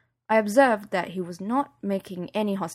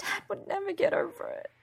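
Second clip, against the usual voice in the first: higher, whispered through tears; tearful whisper; 12 semitones higher, 6 dB quieter than usual. Acted. Daughter crying to her mum, whispered and tearful. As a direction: barely get it out.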